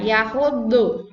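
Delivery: "yahudu" with a pressed side d; heavy d demo. Shown as a demonstration. Teacher models the dhad in "yahudu".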